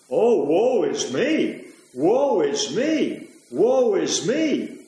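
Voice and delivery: slow, mocking lament; mock self-pity. Preacher mocking Cain to the congregation, slow mock lament. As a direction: drag it out like a self-pitying sulk.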